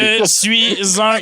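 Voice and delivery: slow, drawn-out robot voice. Pretend. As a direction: speak like a slow machine. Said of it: "Je change ma voix". (voix de robot traînante)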